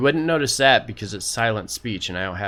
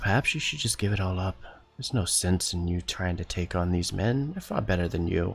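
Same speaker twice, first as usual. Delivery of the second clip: quick, voiceless half-whisper; 3 dB quieter than usual. In a tabletop game, a character half-whispers into another character's head. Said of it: "begin whispering again into Druidy's head".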